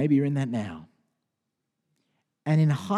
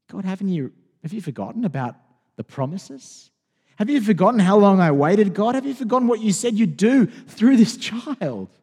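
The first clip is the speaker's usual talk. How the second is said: Abraham crying out to God over his son, building to loud; pleading Abraham; 5 semitones higher, 4 dB louder than usual. Acted. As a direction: plead with God, getting louder line by line.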